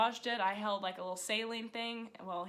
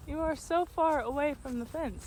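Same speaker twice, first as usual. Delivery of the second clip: teasing; 7 semitones higher, 6 dB louder than usual. Real, not acted. Teasing the horse on camera.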